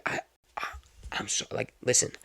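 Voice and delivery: soft, halting mock excuse; hesitant stammer. Passenger stalls the unpaid cab driver, hesitant. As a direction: stall quietly, searching for the words.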